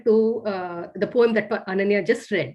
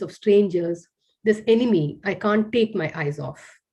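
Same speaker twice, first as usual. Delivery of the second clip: poem reading. Acted. Reads her haibun aloud.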